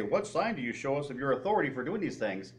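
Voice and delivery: politely worded, restrained question. Retold or imitated. Reading the Jews' question to Jesus as the verse words it, very polite. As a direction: ask it courteously, at an easy level. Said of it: "this says it very politely".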